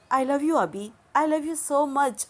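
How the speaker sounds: high-pitched, slowing on the last words; pleading, drawn-out declaration of love; impassioned love confession. A narrator's reading. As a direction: pour out a long-held confession. Desperate love confession in the story.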